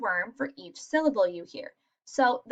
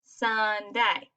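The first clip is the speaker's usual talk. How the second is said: "Sunday" in two even beats, SUN-DAY, falling at the end; syllable counting. Shown as a demonstration. Teacher tapping out syllables for children, "Sunday" in two distinct beats. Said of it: "Or I could tap my chin".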